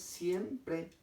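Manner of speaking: "siempre" said carefully with i and e both sounded; both vowels pronounced. Shown as a demonstration. Teacher showing students the diphthong, "siempre" carefully articulated. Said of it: "acá sí se pronuncian las dos vocales".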